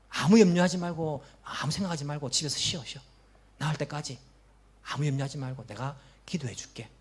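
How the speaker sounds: soft, sympathetic reassurance; comforting. Retold or imitated. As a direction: comfort a sick fellow member gently. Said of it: "이렇게 말하는 사람이 있습니다".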